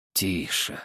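low, soft hushing command; hushing an angry ally. A narrator's reading. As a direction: shush him, finger to the lips. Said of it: "прижал я палец к губам".

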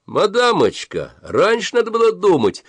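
high-pitched spiteful shout from the queue; gloating high shout. A narrator's reading. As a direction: crow it at her with glee. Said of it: "злорадно закричал кто-то высоким голосом".

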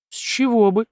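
high-pitched mock surprise; feigned surprise. Mart denying he is jealous, feigned surprise. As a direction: act innocently taken aback. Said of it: "изобразил удивление Март".

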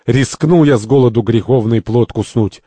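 mild, stagy grumble; grumbling. Acted. Santori blames Lorenzo's diet, grumbling. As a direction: grumble with a drawn-out start. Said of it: "Сантори ворчит".

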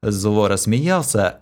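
ordinary delivery, nothing marked

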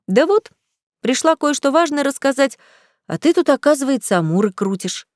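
a mock-jealous drawl; drawn out teasing. A narrator's reading. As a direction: needle him playfully. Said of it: "протянула Женя".

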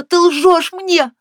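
high, slow, loud accusation; angry shout. A narrator's reading. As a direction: hurl it at him in fury. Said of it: "она гневно прокричала".

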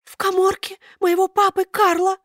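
high thin puppet voice. A narrator's reading. Buratino explains to Karabas, high thin voice.

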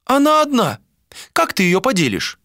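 put-on high old seer's voice; old woman voice. A narrator's reading. Old seer voiced by narrator.

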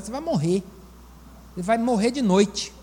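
ordinary talk

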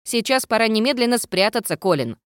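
ghost voice. A narrator's reading. Ghost character voice.

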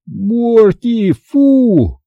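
high-pitched alarmed scolding; crying out. A narrator's reading. Boy scolds his dog at the bowl, crying out. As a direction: cry out high, at moderate volume. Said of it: "закричал я".

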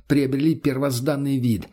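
usual speaking voice

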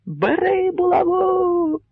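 very high slow echoing chant; the crowd answers like an echo; crowd echoing shout. A narrator's reading. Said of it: "луною відповів йому натовп". (натовп луною повторює)

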